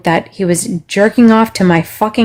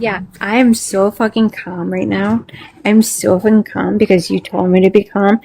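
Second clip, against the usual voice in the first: tightly controlled, mock-obedient calm; sarcastic calm. Real, not acted. Streamer answers being told to be calm, sarcastically composed. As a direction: rein it in and claim calm pointedly.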